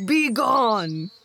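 loud, forceful snarl; snarled command. A narrator's reading. Bear in the entranceway to the badgers, snarling. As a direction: snarl it loudly to drive them out. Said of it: "he snarled".

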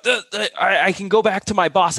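high, flustered stammering; mock panicky rep. Mocking a nervous sales rep caving to a customer. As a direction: play the sweating rep who caves. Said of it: "they're freaking out, they're sweating".

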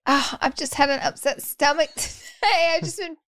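Aaron impression. Imitating partner excusing her gas to the household, high put-on impression. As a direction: play up the upset-stomach confession, pitched high. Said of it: "The way she does it is she goes".

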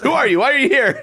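reporter quote. Retold or imitated. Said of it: "One guy runs up, he goes".

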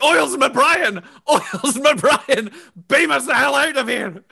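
high, stretched-out holler; Duncan calling out. Acted. Duncan calling for rescue over the intercom, high holler. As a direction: holler the name high and drawn out. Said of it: "runs over to the intercom".

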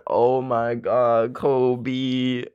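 slow, choked-up words through tears; fighting back tears as the memory hits; teary and slowed, breaking off on the dog's name; real crying. Real, not acted. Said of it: "Not me literally crying on a podcast".

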